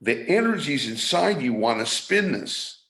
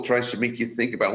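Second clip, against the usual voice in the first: usual speaking voice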